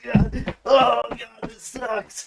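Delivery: re-enacted sick, agonized moaning; dope sick. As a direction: moan as if in withdrawal, acting it out. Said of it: "But I'm dope sick".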